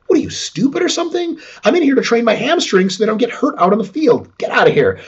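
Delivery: high-pitched mock indignation; incredulous, hammed-up comeback that starts very high; scornful retort. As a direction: act out an athlete brushing off a silly question. Acted player's scornful retort.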